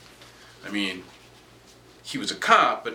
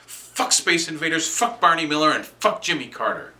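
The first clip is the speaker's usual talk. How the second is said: raised, punched-out cursing; frustrated outburst; 5 semitones higher than usual. Acted. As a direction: curse each one off in mounting frustration. Frustrated outburst against games and politics.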